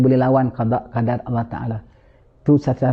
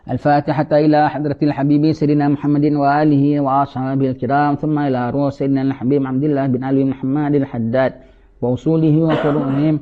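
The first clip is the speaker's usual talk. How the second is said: fast, recited Arabic dedication; prayer dedication; faster than usual. Acted. Imam dedicating the Fatiha to the congregation, fast recitation. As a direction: rattle off the formula.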